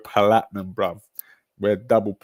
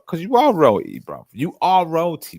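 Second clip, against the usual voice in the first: higher, louder hammed-up flattery; mock royal praise; 7 semitones higher, 6 dB louder than usual. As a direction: crown the chatter with exaggerated praise.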